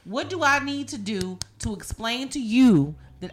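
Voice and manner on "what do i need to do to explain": fast, louder, fed-up; fed-up rant, fast and loud; exasperated rant. Real, not acted.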